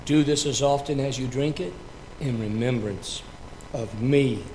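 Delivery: solemn words of institution; liturgical reading. Acted. Pastor reciting the Last Supper words to the congregation, solemn. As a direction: read the sacred words with reverence.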